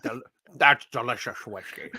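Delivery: low Scottish-Russian submarine captain; lightly voiced Scottish Russian commander; Scottish Russian accent. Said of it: "best Scottish Russian accent".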